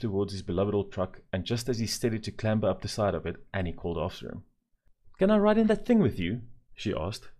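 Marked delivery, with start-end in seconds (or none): 5.2-6.4 very high, loud eager asking; excited girl. A narrator's reading. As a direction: beg eagerly, bouncing with excitement. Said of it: "pointing an excited finger".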